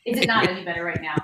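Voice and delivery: echoey, tunnel-like sound; like talking from a tiled bathroom; echoing bathroom. Real, not acted.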